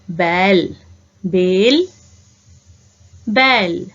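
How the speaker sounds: बैल with an open ai, बेल with a clean e; slow teacher model: बैल, बेल, बैल; contrasting e and ai. Shown as a demonstration. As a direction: spell out each vowel clearly for the class. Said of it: "ए की मात्रा ... ऐ की मात्रा".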